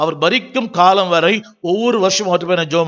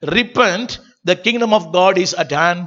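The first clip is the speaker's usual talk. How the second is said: slow reading; much slower than usual. Shown as a demonstration. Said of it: "ஆங்கிலத்துல வேற மாதிரி போட்டிருக்கோம்".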